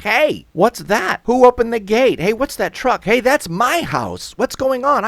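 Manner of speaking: very high, loud, outraged cries; frantic shouting. Acted. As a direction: shout in mounting alarm. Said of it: "turn and shout".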